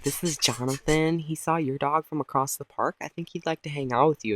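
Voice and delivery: lightly voiced dog mom; mildly put-on owner voice; weird dog mom. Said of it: "some weird dog mom walks up".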